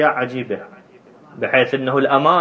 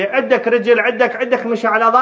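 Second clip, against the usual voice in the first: higher-pitched acted interrogation; raised, probing voice in a retold debate; insistent questioning; 8 semitones higher than usual. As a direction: fire off questions as a keen young student.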